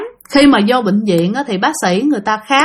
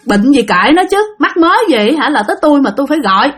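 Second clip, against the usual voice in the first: higher-pitched mock snapping back; retold scolding; 3 semitones higher than usual. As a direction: voice an irritated brush-off, mildly heated. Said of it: "Thì nó chửi".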